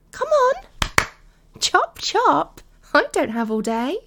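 loud, high, impatient bark; impatient command. Acted. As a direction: snap it out, hurry him up. Impatient girlfriend ordering him.

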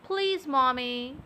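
slow, clear model line; spoken slowly so he can repeat it; slow demo. Shown as a demonstration. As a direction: spell it out slowly for him to copy. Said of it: "get yourself together a little and say".

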